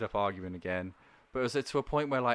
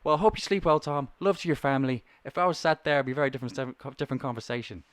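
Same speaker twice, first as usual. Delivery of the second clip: veiled threat; 3 semitones higher, 6 dB louder than usual. Retold or imitated. Caller threatening agent.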